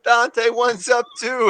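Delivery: high, loud, stretched holler; screaming out. Acted. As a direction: scream it to the stage, drawn out. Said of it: "I'm, I'm screaming out".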